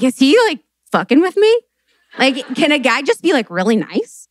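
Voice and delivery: high, rising disbelief at a nice guy; incredulous. Retold or imitated.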